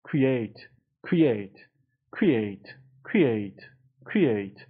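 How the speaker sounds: "Create" joined up, weight on -ATE; cre-ATE, careful teaching repetition; stress on second syllable. Shown as a demonstration. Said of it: "استرس رو بخش دومه".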